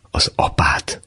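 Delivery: whispered in disbelief; girl whispering to her fiance, stunned; shocked whisper. Acted. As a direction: breathe the words out in shock.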